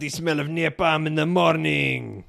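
attempted Spanish accent. Doing an accent for a guessing game, Spanish accent. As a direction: put on a rough Spanish accent. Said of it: "Spanish? Yes".

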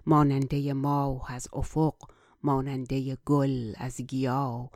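flowing Persian verse recitation; poem recitation. Acted. Recites Persian verse before translating.

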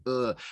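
short mock groan of discomfort; put-on queasy grunt; imitated uneasy "ugh". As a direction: groan like someone hating the ride. Imitates actor's uncomfortable reaction.

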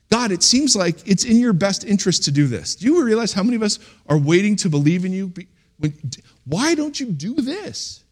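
pleading with God, rising to high exasperation; lamenting prayer. Acted. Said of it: "Lamenting, I mean, I've prayed this".

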